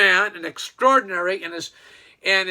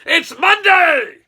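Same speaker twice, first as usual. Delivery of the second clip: loud, high and slow, a big beaming "It's Monday!"; cheerful exclamation; 8 semitones higher, 8 dB louder, much slower than usual. Retold or imitated. Cheerful businessman greeting the week, loud and slow. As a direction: stretch it out, all smiles. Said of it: "he's just all smiles and says".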